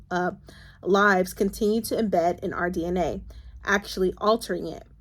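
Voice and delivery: steady read-aloud from a novel. Acted. Vlogger reads a book passage to her viewers, steady reading voice.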